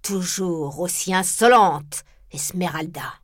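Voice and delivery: slow, low, cold rebuke; a hint of a severe magistrate scolding; lightly voiced stern Frollo; stern judge. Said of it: "la mine sévère".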